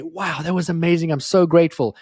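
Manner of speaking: gushing grateful listener. Retold or imitated. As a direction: play a thrilled guest thanking him after the show. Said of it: "and for you just to say".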